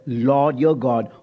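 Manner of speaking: slow down on Lord your God; deliberate slow stress; emphasized word. Shown as a demonstration. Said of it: "here's the word".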